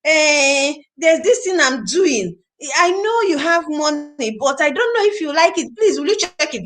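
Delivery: high, slow, timid pleading; mock beg a rich prospect; beggarly pitch. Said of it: "you're talking this way".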